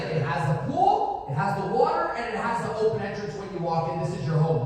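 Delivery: a lively imitated friend pushing the buy; excited pitch. Steve excitedly selling the home.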